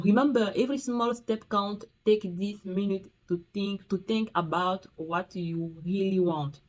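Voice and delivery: slow, put-on American accent on the English; mock American English. Reading her video's quote aloud in a playful mock American accent. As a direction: read the motivational quote like an American coach. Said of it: "vous allez m'appeler l'américaine".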